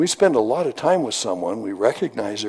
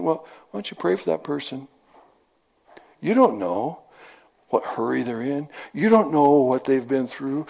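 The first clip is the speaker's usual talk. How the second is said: gentle shepherd voice; 4 semitones higher than usual. Retold or imitated. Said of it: "That's the voice of the shepherd talking to me".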